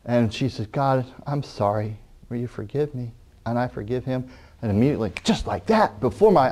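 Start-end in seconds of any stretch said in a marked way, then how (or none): 0.7-3.1 tearful. Retold or imitated. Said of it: "with tears in her eyes".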